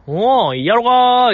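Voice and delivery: mock-overjoyed old director, fired up; delighted Miyazaki. Host imagining Miyazaki hearing her, shouting with delight. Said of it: "もう宮崎駿さん大歓喜でしょ".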